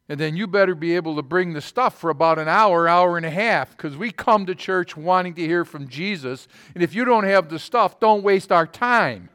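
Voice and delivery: imitating a fired-up churchgoer laying down terms; excited churchgoer. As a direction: retell her excited, insistent challenge. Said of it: "You're really excited about this".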